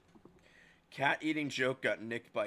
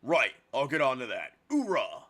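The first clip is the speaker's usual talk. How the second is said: loud army shout; loud gung-ho soldier; 5 dB louder than usual. Acted. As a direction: bark like a drill recruit. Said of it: "the voice I'm giving her".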